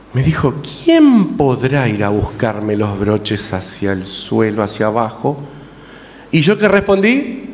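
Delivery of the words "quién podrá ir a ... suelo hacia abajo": slow, innocent-sounding sly question; sly hint. Retold or imitated. Mother slyly hinting her son should fetch them, slow and sly. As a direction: drop a hint without asking outright. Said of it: "muy sutilmente y astutamente".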